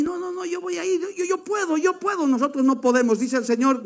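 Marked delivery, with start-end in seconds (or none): 0.0-2.3 higher, much softer boastful voice; a hint of a cocky believer, pitched up and soft; mock boaster. Preacher mimics a reckless believer boasting, soft and high.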